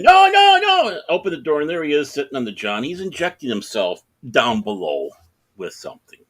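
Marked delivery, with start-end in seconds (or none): 0.0-1.0 acted panic, very high and loud; panicked protest. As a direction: cry out to keep the door shut. Man protests as door opens.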